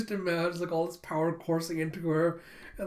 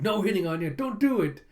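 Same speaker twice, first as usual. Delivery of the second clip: raised, insistent mock warning; urgent self-restraint; 3 semitones higher, 4 dB louder than usual. Girl warns herself not to hit, urgent. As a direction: rein yourself in, pitch climbing.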